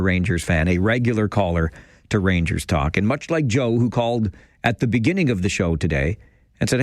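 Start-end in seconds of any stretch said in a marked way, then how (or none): none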